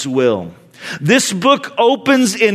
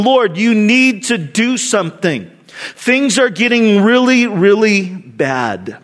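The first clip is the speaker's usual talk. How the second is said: raised, emphatic appeal, slowing at the end; urgent plea; 2 semitones higher than usual. Retold or imitated. Prophet telling God the nation is bad, pleading.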